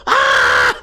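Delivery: sudden low mock yelp of surprise; startled yelp. A startled man yelps as a rocket bursts in. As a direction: yelp like a rocket just came through the window.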